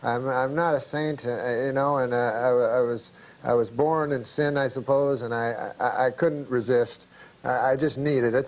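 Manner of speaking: lightly acted halting, low-pitched confession; a touch of guilty excuse-making; sheepish confession. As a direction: own up haltingly, voice dropping. Uncle confesses weakness, pleading excuse.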